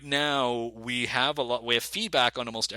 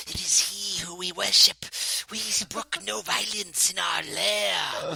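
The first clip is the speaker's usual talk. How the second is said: hissing, whispery little creature voice; kobold voice; 7 semitones higher, slower than usual. Shown as a demonstration. DM plays a kobold cultist for the hosts, hissing. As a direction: hiss like a hunched little kobold. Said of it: "like a kobold might be like".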